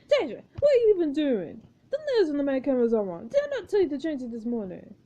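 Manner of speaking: lightly voiced imperious director; a touch of director's exasperation; scolding film director. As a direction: tell off an assistant, stiffly formal. Marcus scolds his assistant.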